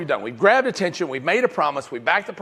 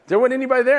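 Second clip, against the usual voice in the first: put-on confused kid; 10 semitones higher, 5 dB louder, faster than usual.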